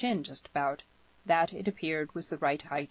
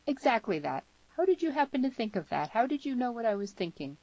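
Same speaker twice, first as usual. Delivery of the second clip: higher, eager questioning; excited young man, voice raised in pitch; young man, delighted and amazed; 8 semitones higher than usual. Acted. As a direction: ask in happy wonder, pitch lifted.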